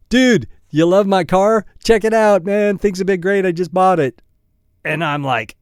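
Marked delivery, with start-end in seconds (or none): 0.1-4.2 higher, bright show-off voice; excited bragging friend. Retold or imitated. Friend bragging about his new Porsche, excited and higher. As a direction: gush about the new car, pitched up.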